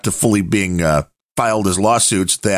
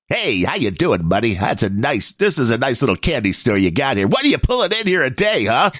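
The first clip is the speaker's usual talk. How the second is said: Sopranos mobster. Retold or imitated. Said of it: "the Tony Sopranos guys are showing up like".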